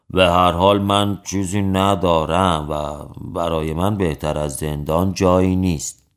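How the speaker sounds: low-pitched, resigned reply; lightly acted resignation, voice dropped low; resigned pauper. Pauper tells judge he owns nothing, resigned.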